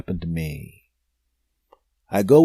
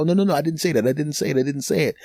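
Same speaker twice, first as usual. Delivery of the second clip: panicked denial; 5 semitones higher, faster than usual. Retold or imitated. Pleading innocence to furious lady.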